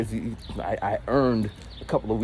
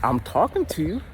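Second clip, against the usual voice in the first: put-on high-pitched girlfriend voice. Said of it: "I would say something like".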